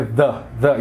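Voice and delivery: the, the with an English th; English th sound. Shown as a demonstration. Teacher compares the theta with English th. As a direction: say the with the tongue between the teeth. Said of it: "parece muito com a pronúncia do T H em inglês".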